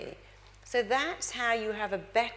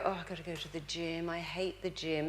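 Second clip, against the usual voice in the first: softer, fed-up moan; mock whining; 4 semitones lower, 7 dB quieter than usual. Speaker mocking a reluctant gym-goer, softly whiny. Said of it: "You don't go".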